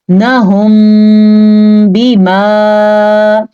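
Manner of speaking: नहुम बिमा with a hummed closed-lip m; ikhfa shafawi. Shown as a demonstration. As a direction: hold the म of नहुम in a nasal hum before बिमा. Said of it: "दोनों होंठ बंद कर दिए जाते हैं". (होंठ बंद करके गुन्ना)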